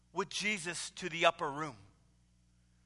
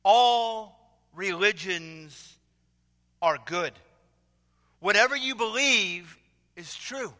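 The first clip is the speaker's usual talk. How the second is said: slow, loud pulpit pronouncement; pastor's opening; 4 dB louder, slower than usual. Retold or imitated. Liberal pastor proclaiming to the congregation, slow and loud. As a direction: intone it like a pompous preacher. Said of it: "The pastor began this way".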